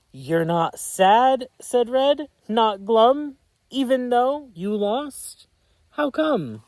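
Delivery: high, loud wondering questions; puzzled racer. Acted. Red asks Blue why he is not sad, high. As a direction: ask amazed that he isn't sad.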